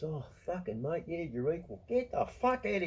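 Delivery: mocking agreement that flips to scorn; sarcastic scorn. Real, not acted. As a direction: sneer then dismiss. Sarcastic rejection of equality.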